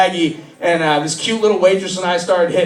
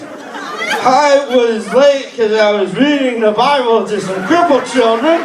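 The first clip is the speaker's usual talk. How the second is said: higher, overly formal greeting; fake polite son; 4 semitones higher, slower than usual. Drunk son greeting his mom, overly polite. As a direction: pretend to be sober and proper. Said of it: "you're like".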